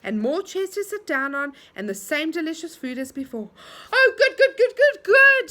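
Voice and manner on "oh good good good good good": high, loud happy cheering; joyful shout. A narrator's reading. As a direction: cheer it out together. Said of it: "shouted everyone".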